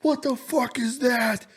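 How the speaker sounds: high, slow, awed mock panic; panicked. Staring up at the lights in the sky, in high awed mock panic. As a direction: stretch it out in hammed-up terror. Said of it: "straight panic mode".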